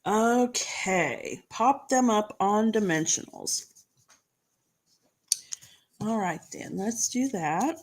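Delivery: talking round a cough drop; sucking a hard candy. Real, not acted. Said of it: "I have got the, the cough drop in my mouth".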